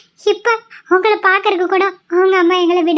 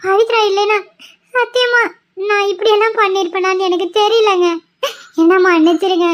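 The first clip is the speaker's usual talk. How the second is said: tearful apology; 2 semitones higher than usual. Acted. Wife confesses, breaking down.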